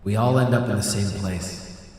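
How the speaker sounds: spooky ghost voice. Pretend. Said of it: "do I have spooky voice on right now".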